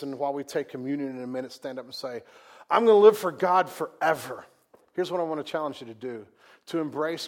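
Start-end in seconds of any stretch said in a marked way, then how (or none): 2.7-4.4 loud, hammed-up pledge; mock grand vow. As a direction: belt it like an overeager convert. Mocks a big churchy vow.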